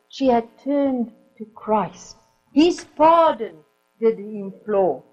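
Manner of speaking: slow, measured verse reading; a preacher reciting a hymn poem; poem recitation. Acted. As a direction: read the verse with reverence.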